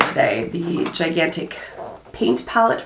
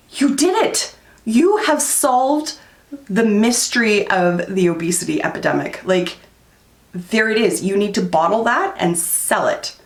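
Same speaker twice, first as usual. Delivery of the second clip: sarcastic reply; 3 semitones higher than usual. Retold or imitated. Vlogger mocks a rude tweeter, hammed-up sarcastic praise. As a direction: heap on fake praise to mock the tweet. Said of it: "I'm just like".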